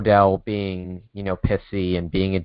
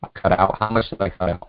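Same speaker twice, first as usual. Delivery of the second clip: choppy robotic call audio; breaking up like a bad phone line. Real, not acted. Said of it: "but you sound like a robot".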